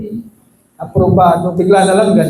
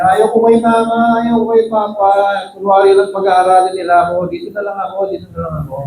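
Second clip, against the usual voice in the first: retold crying child. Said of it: "umiiyak yung bata, sabi niya".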